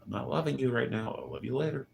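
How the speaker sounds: high, teasing put-off; playful brush-off. Pretend. Teasing a pestering friend, high and playful. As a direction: tease while pushing them away. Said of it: "Would hate that".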